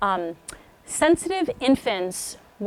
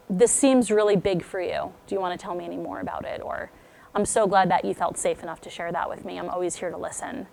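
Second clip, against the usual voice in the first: calm, lowered reassuring voice, softening at the end; gentle supportive listening; 3 semitones lower, 4 dB quieter than usual. Shown as a demonstration. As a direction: model a tender check-in with a child. Modelling what parents should say.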